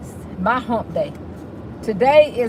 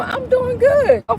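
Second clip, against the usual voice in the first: high sing-song reply; 12 semitones higher than usual. Acted. Host answering a viewer in a high lilting voice.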